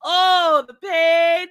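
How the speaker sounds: hammed-up moan, high and loud; mock suffering. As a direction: ham up the pain for laughs. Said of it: "I'm like".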